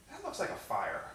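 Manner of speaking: understated, quiet noticing; casually observe it, not yet worried; mild puzzlement. Retold or imitated. First mild notice of the fire.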